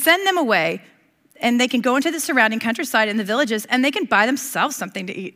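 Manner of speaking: put-on a touch of a whiny teenager; mildly complaining disciple voice. Pastor acting the tired disciples, light teenage whine. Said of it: "I'm doing it again".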